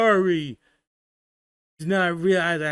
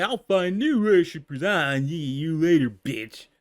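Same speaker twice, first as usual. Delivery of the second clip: put-on bitter, slurring drunk god; drunken god voice. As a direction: sneer like a drunk deity. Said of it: "doing the drunken god voice".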